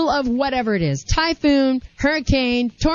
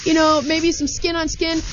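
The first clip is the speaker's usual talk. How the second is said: higher voice, yelling over wind; shouting over wind; 3 semitones higher than usual. Pretend. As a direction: shout it like a gale is behind you. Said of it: "like the wind is really loud behind you".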